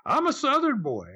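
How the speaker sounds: lightly voiced Southern boy pleading; mock Southern protest. Retelling Rob's protest.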